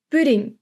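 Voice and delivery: "Pudding" with a short Dutch U; teacher's careful model of "Pudding". Shown as a demonstration. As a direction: keep the U in "Pudding" light and careful. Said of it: "be careful of the U".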